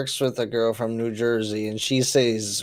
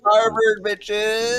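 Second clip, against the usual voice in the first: mock brag; 10 semitones higher, much slower than usual. Friend mocks a show-off Harvard graduate with a high brag. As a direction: gloat like a frat boy with a diploma. Mocking bragging Harvard grad.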